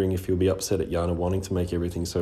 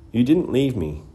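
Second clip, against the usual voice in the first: upset protest; 6 semitones higher, 6 dB louder than usual. A narrator's reading. Ari protests emotionally.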